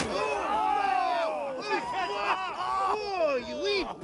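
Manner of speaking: high, loud furious yell; angry outcry. Acted. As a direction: curse him as you get hit. Reacting to being hit.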